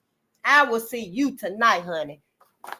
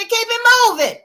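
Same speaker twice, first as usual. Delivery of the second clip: high breezy; 12 semitones higher, 7 dB louder than usual. Retold or imitated.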